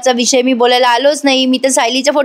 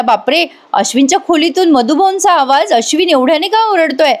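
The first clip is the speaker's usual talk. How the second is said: higher, startled bapre; alarmed surprise; 4 semitones higher than usual. Retold or imitated. Arjun tells Sayli he hears shouting, in higher startled alarm. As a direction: caught off guard by the shouting upstairs. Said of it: "आता अर्जुन म्हणतोय सायलीला".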